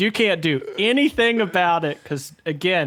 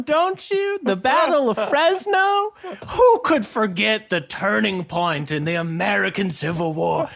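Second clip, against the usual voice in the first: mock tearful nostalgia; 4 semitones higher than usual.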